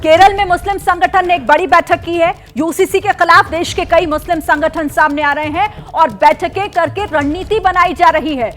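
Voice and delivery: brisk anchor delivering breaking news; breaking news read. Acted. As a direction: read it out as a TV headline update. Anchor reads breaking news update.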